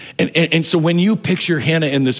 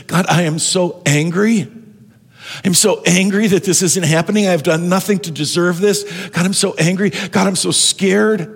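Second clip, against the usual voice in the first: angry prayer; 4 semitones higher than usual. Acted. Hannah's angry prayer voiced.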